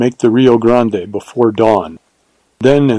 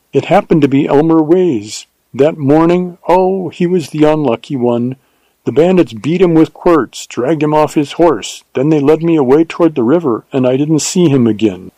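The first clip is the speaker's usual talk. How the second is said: put-on higher-pitched young woman's storytelling voice; heroine recounting misfortune; 5 semitones higher than usual. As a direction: recount the bandit attack in the heroine's raised voice.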